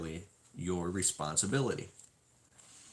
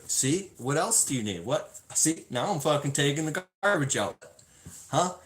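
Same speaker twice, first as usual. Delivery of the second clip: higher, louder eager show-off; eager husband; 6 semitones higher, 4 dB louder than usual. Retold or imitated. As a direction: prove you're helping, all pumped up.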